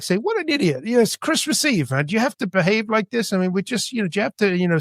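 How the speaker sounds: high, sneering mock scolding. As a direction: needle the drunk guy for his behavior. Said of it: "And I started mocking him".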